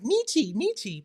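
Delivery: high, soft mock taunt; singsong imitation of teasing friends; imitated teasing. Streamer mimics friends teasing her about her name's spelling, playfully mocking. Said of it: "friends that be teasing me like".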